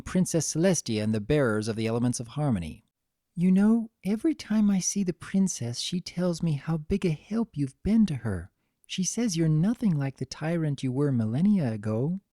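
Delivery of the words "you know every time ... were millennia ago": a hint of a sweet young mare talking with an old friend; gentle Fluttershy. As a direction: speak kindly as the timid mare. Fluttershy voiced by narrator.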